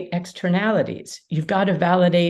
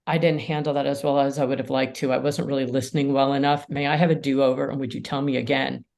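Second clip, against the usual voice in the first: put-on soft, lower, gentle apology to a teen; sincere apology; 4 semitones lower, 3 dB quieter, faster than usual. Shown as a demonstration. Parent apologizing to a teenager, soft and sincere. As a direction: say it humbly and gently. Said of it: "when you say to a teenager".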